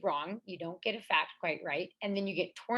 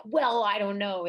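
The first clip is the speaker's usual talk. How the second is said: slow, louder imitation of a doubter; mock hedging; 6 dB louder than usual. Athlete mimicking doubters in a debate, mock hedging. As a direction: drag out a mock-unsure reply.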